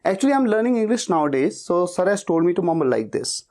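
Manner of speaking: slow, careful English reply; slow model answer. Shown as a demonstration. Telling brother why he mumbles, slowly. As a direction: say it slowly and clearly. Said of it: "इसी speed में उसे बोल दो".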